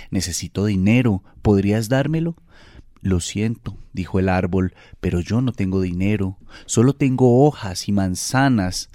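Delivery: put-on gentle storytelling voice for children; story narration. A narrator's reading. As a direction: read it like a bedtime tale. Reads a children's story aloud. (lectura de cuento infantil)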